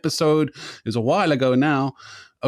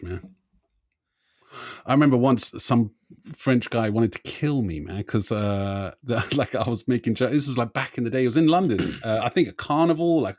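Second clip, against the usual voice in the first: ordinary talk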